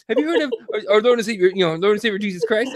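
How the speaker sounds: lightly voiced earnest door-to-door preacher; a mock-earnest pitch, like knocking on doors to evangelize; mock Mormon missionary. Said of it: "came at him like a fucking Mormon".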